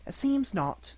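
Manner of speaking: smiling. Acted.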